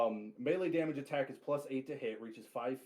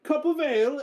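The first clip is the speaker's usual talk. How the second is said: much higher and louder quip; cheerful call; 12 semitones higher, 7 dB louder than usual. Acted. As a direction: warrior calling to the barkeep mid-swing. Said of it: "looks back at Durin and says".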